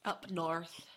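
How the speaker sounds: badly faked Yorkshire lilt; bad Yorkshire accent. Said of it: "Uh, that's awful".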